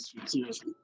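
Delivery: choppy, breaking-up connection; glitching audio. Real, not acted. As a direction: voice cutting out on a bad line. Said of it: "your audio is bad".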